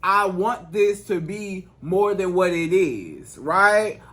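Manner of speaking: slow, composed and sincere; calm, unhurried heart-to-heart. Shown as a demonstration. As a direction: state it calmly and deliberately. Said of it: "say it to him in a calm voice".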